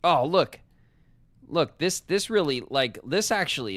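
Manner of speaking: high, loud eager burst; excited discovery. Real, not acted. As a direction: jump on the find.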